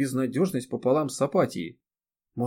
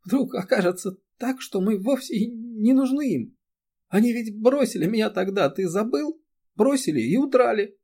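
high, tearful outpouring; a high, weeping lament; crying; 11 semitones higher than usual. A narrator's reading. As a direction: speak through rising tears. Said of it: "Эри тихо заплакала".

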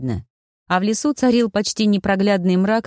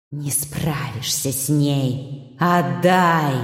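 spirits pleading; 4 semitones lower, much slower than usual. A narrator's reading. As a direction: coax him eerily. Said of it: "просили его". (тихая, медленная потусторонняя просьба)

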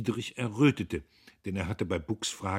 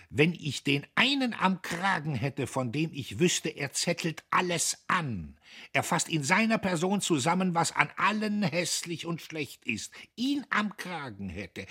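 suddenly hoarse; 10 semitones higher, 5 dB louder than usual. A narrator's reading. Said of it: "er war plötzlich ganz heiser".

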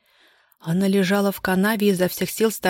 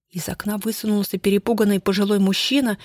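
ordinary delivery, nothing marked

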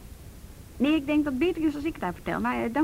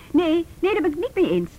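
firm protest; 4 semitones higher, 5 dB louder than usual. Acted. Phone argument, firm disagreement.

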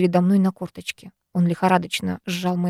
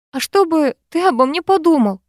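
higher, louder plaintive moan; 8 semitones higher, 4 dB louder than usual. Acted. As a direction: moan it out in distress. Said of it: "простонала я".

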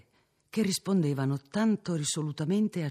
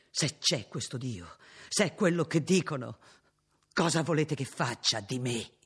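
cornered and desperate. Acted. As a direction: speak like a man at the end of his rope. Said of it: "dette con un accento disperato".

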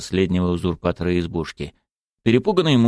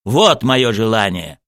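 slow, mildly raised exclamation; angry cry; 2 semitones higher, 4 dB louder, slower than usual. Acted. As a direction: declare it with weight, drawn out. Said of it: "закричал Муртуз". (сердитое восклицание)

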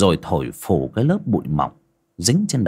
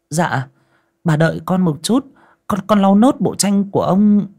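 higher, dutiful answer; meek servant reply; 10 semitones higher, 4 dB louder than usual. Acted. Maid answers the mistress, meek and higher. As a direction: answer politely while busy.

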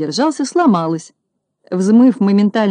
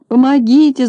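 high, loud desperate wail; howling for help; 6 semitones higher, 5 dB louder than usual. A narrator's reading. Dangling policeman howls for help, loud and high. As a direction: policeman stuck in tree wails for help. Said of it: "завыл полицейский".

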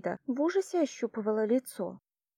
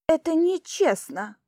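indignant, raised high and louder; indignant outcry; 7 semitones higher, 5 dB louder than usual. A narrator's reading. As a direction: protest it as unfair, loud and high. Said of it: "возмутилась она". (возмущённо, громко и высоко)

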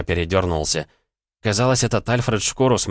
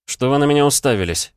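hissed; 7 semitones higher, 5 dB louder than usual. A narrator's reading. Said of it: "прошипел я".

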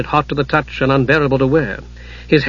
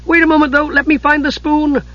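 kender voice; 13 semitones higher than usual. Acted. Tass voiced.

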